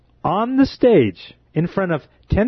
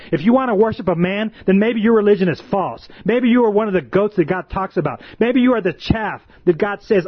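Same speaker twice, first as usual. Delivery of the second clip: raised, rising preacher's pitch, pressing the flock; preaching at full force; 3 semitones higher than usual. Acted. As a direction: preach it hard, a watchman warning the church. Preacher escalates, pitch raised throughout.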